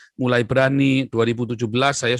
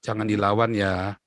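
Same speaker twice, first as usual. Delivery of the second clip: low, softened fatherly advice; calming father; 3 semitones lower, 4 dB quieter than usual. Retold or imitated. Father advising his bullied son not to fight, calming. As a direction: gently talk your child out of fighting.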